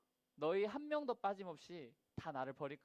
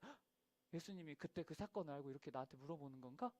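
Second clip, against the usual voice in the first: worried inner gasp; 5 dB quieter than usual. Retold or imitated. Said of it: "막 이렇게 걱정이 됐을 거란 말이에요".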